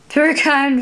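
lightly voiced tittering old fairy; tittering thanks. A narrator's reading. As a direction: giggle out the first "Very kind". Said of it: "Berryminds tittered".

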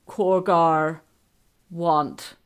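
lightly voiced dim brute; halting, simple oaf, word by word; Korgar. A narrator's reading. Korgar speaks through Wizard King.

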